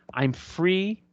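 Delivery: relieved, joyful rise on free; joy and relief. Retold or imitated. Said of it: "there is joy and relief".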